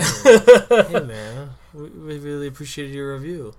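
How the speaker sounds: jokey put-on voice for the band, opening on a loud laughing hey; playfully voicing a grateful band member. Host voicing the band thanking him, in a light put-on voice. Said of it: "I don't know what accent that is".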